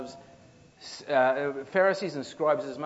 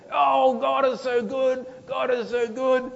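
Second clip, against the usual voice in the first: hammed-up pious voice, slow and high; pious mock praise; 7 semitones higher, 4 dB louder than usual. Preacher mocking grumblers' pious talk, hammed-up. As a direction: parody a sugary churchgoer.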